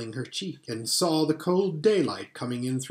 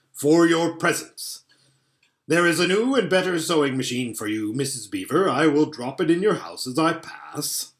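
Father Christmas; 3 semitones higher, 3 dB louder than usual. Acted. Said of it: "said Father Christmas".

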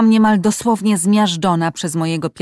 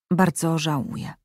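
a mildly downcast, softer apology; understated regret; dejected; 2 semitones lower, 3 dB quieter than usual. Acted. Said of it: "rzekł Kaleb zgnębiony". (cicho, lekko przygnębiony)

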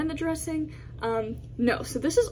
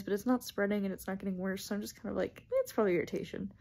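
breathless, winded talk; out of breath; 4 semitones lower, 4 dB quieter, faster than usual. Real, not acted. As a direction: speak short of breath. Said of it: "I'm out of breath".

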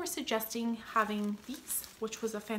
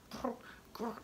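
soft playful mock growl; imitated dog growl; 10 dB quieter than usual. Dog grumbling at owner, mock growl. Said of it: "grumbling at me".

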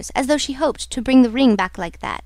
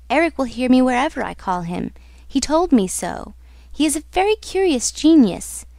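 lightly voiced heroine, earnest and insistent; a hint of awe, pressing the point; awed heroine; 2 semitones higher than usual.

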